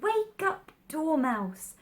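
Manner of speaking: high, loud wake-up call; cried out. Acted. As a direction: call loudly to rouse the sleeper. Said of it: "they both cried".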